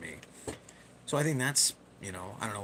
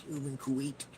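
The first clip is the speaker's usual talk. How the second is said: George W Bush goblin voice; 6 semitones higher than usual. Retold or imitated. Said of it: "I make him sound like a goblin".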